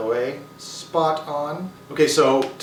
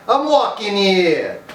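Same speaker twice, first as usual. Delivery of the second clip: loud, high, drawn-out Brooklyn shout; New York accent; 6 semitones higher, 4 dB louder, slower than usual. Shown as a demonstration. Vlogger acting out a movie cliché, shouted New York accent. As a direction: holler it like an indignant New Yorker. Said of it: "saying that when they're in New York".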